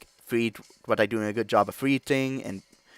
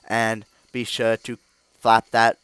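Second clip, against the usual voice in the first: slow, deliberate robot voice; Blitzcrank robot voice; slower than usual. Acted. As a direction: speak slowly like a clunky robot. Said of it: "imitation of Blitzcrank voice that I do".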